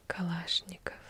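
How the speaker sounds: Kalashnikov with the second syllable stressed, ka-LASH-nikov; Russian stress. Shown as a demonstration. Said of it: "It's the second syllable you stress".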